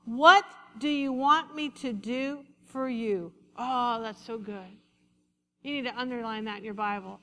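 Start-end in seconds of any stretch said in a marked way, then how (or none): 0.0-3.3 calling out. Acted. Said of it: "he stopped and called".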